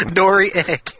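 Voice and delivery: high, cantankerous wrestler voice; ornery wrestler making an egg pun; Terry Funk impression. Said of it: "if Terry Funk were gonna play".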